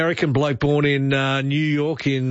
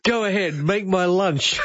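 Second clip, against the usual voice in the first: mock movie threat, pitched up and stretched; catchphrase parody; 4 semitones higher than usual. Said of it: "you come on and say".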